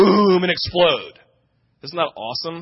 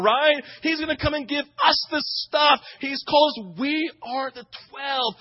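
mock disciple excitement; 4 semitones higher than usual. Disciples voiced boasting after ascension.

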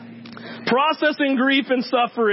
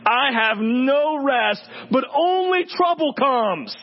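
passionate reading; slower than usual. Shown as a demonstration. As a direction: read Job's curse with understated passion. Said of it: "I'm gonna say it passionately".

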